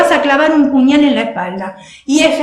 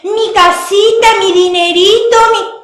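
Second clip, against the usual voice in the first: mock humble voice; 5 semitones higher than usual. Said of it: "La gente que se quiere hacer la humilde dice".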